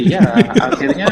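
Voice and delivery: high, loud laughing reply; amused, laughing agreement. Real, not acted. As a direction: answer through a burst of laughter. Laughs at host's blunt summary.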